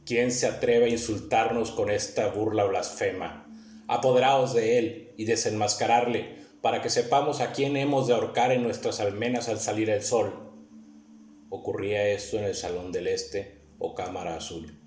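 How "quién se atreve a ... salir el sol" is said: loud, higher-pitched princely outrage; voz clara y potente. A narrator's reading. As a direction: ring out clear and forceful, like an impetuous prince giving orders. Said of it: "Resonaron claras y potentes". (voz clara y potente de príncipe indignado)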